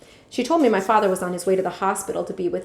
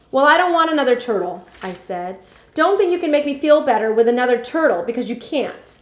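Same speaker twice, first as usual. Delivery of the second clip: resentful refusal; 4 semitones higher, 5 dB louder than usual. Acted. Boy resentfully refuses a present.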